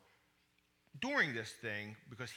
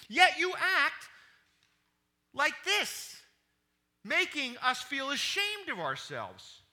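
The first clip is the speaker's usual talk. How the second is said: stern rebuke; 4 semitones higher, 4 dB louder than usual. Acted. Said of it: "Joab went to the king's room and said".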